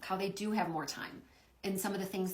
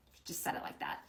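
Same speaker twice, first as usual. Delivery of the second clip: hushed aside; 6 dB quieter than usual. Real, not acted. Aside after quoting Nova.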